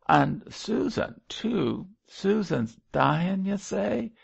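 high, loud tearful outpouring; sobbing. A narrator's reading. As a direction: wail through sobs in dialect. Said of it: "he sobbed".

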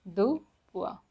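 "Deux points" repeated word by word; stressed "Deux", then a falling "points"; French pronunciation demo. Shown as a demonstration. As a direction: model "Deux points" as "duh pwa". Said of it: "which is pronounced as".

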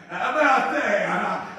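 joyful laughing emphasis; delighted, laughing repeat. Real, not acted. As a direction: savour it with a chuckle.

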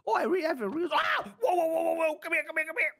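scared then shouting come here; startled shouting. Real, not acted. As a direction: jump in fright, then yell. Player startled by intruder, shouting.

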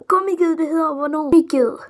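high, loud Gummiged repeated; indignant cry. Real, not acted. Youtuber protesting the nickname, high and indignant. Outraged at being misnamed.

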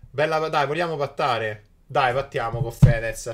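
loud eager call out; excited call. Real, not acted. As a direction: shout the offer eagerly.

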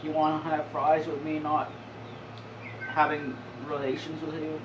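a light mock Clinton as a drive-thru cashier; Bill Clinton voice. Gamer imagines Bill Clinton taking a McDonald's order, lightly voiced. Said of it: "put fucking a Bill Clinton voice into anything".

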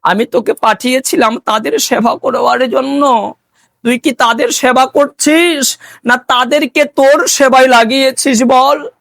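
reproachful guru. Acted. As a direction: mildly take the disciple to task. Guru reproaches disciple in story.

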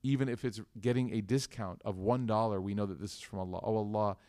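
measured, evenly paced prayer; steady litany, each line settling down at its end; closing dua. Real, not acted. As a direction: lead the congregation in earnest supplication.

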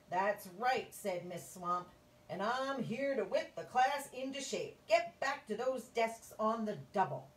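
loud, bossy scratchy witch. Acted. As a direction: bark orders like a witch. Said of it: "in a scratchy voice".

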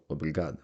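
teacher models the female form «обрігада». Shown as a demonstration. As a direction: say «обрігада» as a woman would. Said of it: "якщо б я був жінкою".

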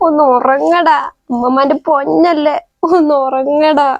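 soft, slow tender plea; mother softly begging her baby to sleep; tender pleading. Acted. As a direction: beg the baby gently to sleep.

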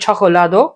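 "চকোলাদো" with a slightly forceful opening "চ"; একটু জোরে চকোলাদো. Shown as a demonstration. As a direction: lean a little on the "চ" of "চকোলাদো". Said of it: "একটু জোরে বলতে হবে". ("চকোলাদো"-র চ একটু জোরে)

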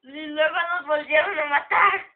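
mock whining. Real, not acted. Partner whining after deaths.

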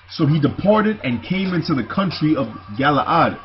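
measured, declaimed Bible reading; scripture reading. Acted. Preacher reading the account of Jonathan's death, scripture reading. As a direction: read the verse out to the congregation.

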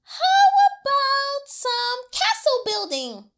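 high, bright-sounding suggestion; big brother suggesting. A narrator's reading. Fergus had another idea.

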